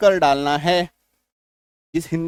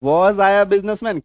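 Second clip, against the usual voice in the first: slow teaching demo; 3 dB louder, much slower than usual. Shown as a demonstration. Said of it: "और प्रश्नवाचक चिन्ह लगा दो".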